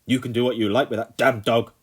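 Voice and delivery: loud angry snap; snapping. A narrator's reading. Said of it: "the Colonel snapped".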